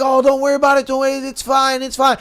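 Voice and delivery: lightly voiced dismissive girlfriend; mock breezy girlfriend. Retelling girlfriend brushing it off.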